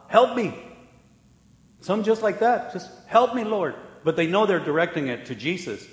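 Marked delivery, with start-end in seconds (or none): 0.1-0.5 louder and higher cry for help; desperate cry. Retold or imitated. Sinner crying out to Jesus, a pleading call. 3.1-3.7 raised, higher plea to the Lord; desperate cry. Retold or imitated. Sinner crying to the Lord, a lifted plea.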